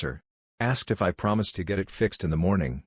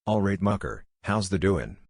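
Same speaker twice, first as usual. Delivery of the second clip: put-on lightly done broad Yorkshire accent. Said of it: "in my broadest Yorkshire accent".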